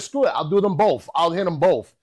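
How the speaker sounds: high, loud declaration; acting out a bold decision; excited resolve. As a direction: throw caution away, all hyped up.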